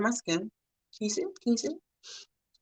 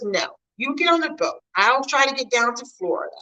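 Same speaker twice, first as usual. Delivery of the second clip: grandma insisting; 5 semitones higher than usual. Retold or imitated. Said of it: "Grandma says".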